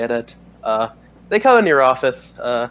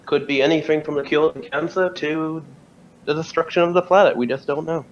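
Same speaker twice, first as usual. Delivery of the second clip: higher officer voice; 4 semitones higher than usual. Acted. GM voicing Carberry.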